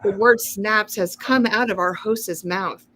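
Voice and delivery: lightly voiced TV announcer; newscaster voice. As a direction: announce it like the evening news. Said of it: "I was trying to do my newscaster voice".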